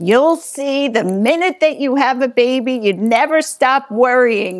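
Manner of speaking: put-on very thick Yiddish accent. Quoting a loving Jewish grandmother speaking to the new mother, in a very Yiddish accent. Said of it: "she said to me in a very Yiddish accent".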